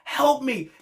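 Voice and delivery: mimicking Wheeler, high and slow, calling to Brian; mock begging. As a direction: beg your mentor for help, hammed up. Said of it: "bro was like".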